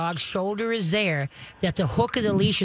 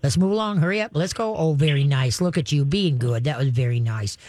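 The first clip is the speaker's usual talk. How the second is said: calm coaching; 4 semitones lower than usual. Shown as a demonstration. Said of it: "just talk calmly".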